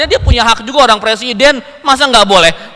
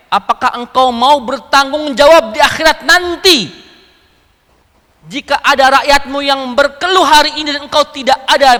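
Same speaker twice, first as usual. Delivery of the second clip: tag; 4 semitones higher, 5 dB louder than usual. Retold or imitated.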